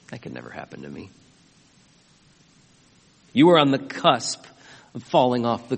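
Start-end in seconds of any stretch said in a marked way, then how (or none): 0.1-1.1 smug self-assurance. Retold or imitated. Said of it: "if you say to yourself".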